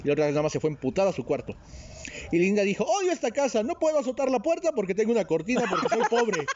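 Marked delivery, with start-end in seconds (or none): 2.8-6.5 put-on higher-pitched bratty teen complaint; angry teen rant. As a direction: rant like a sulky teenager. Linda voiced, angry teen.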